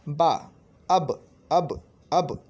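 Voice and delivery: अब drawn out very slowly and firmly; slow letter demo. Shown as a demonstration. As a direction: sound अब slowly so they hear the lips. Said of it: "बा की तरफ आ जाते हैं".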